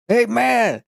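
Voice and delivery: high, slow call over ringing ears. Retold or imitated. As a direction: shout a compliment you can't hear yourself say. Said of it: "So I was like".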